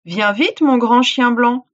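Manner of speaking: loud yell; djinn yelling. Acted. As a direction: shout it out. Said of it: "hurla le djinn".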